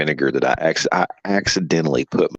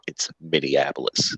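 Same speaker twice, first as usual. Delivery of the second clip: mock correction; 3 semitones lower, 5 dB quieter than usual. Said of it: "anytime I get the chance to say".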